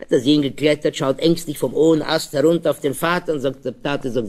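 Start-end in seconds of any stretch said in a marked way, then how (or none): none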